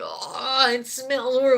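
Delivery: hammed-up complaint about a stink; mock disgust. Friend group reacts to tuna smell.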